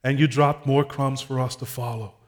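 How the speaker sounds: measured pastoral prayer with long pauses; public prayer. Real, not acted. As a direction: address God firmly in short, spaced phrases. Leads a closing prayer.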